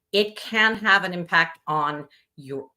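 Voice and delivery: talking through a burp; a small burp in the voice. Real, not acted. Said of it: "I'm burping here from my lunch".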